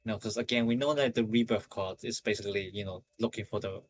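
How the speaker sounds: slightly breathless talking; out of breath. Real, not acted. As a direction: speak a little winded. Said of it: "I'm kinda out of breath today".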